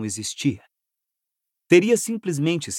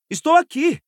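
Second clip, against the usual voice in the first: high shout back; 14 semitones higher, 3 dB louder than usual. Acted. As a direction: call back loudly. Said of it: "gritou ele". (gritando de volta)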